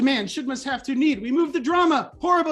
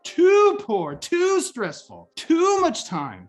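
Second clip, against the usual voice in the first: slow, loud, exasperated moaning; hammed-up defeated whine; mock despair; 5 dB louder, slower than usual. Shown as a demonstration. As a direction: groan each complaint out. Despairing self-talk example.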